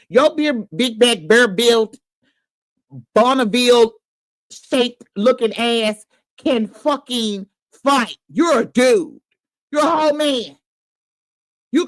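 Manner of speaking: heated rant. Real, not acted. Ranting at a man crying.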